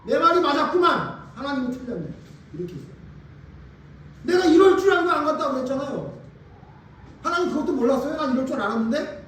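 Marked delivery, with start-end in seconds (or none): 0.1-2.1 higher-pitched, vindicated I-told-you-so; indignant Jonah. Acted. Preacher as the prophet complaining to God, indignant. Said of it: "이렇게 얘기하는 거예요, 지금 요나가". 4.2-9.2 higher, reproachful I-knew-it complaint; indignant Jonah. Acted. Preacher as the prophet scolding God, indignant. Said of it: "이렇게 얘기하는 거예요, 지금 요나가".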